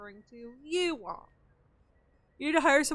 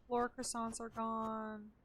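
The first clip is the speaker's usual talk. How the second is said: slow sing-song; 8 dB quieter, slower than usual. Shown as a demonstration.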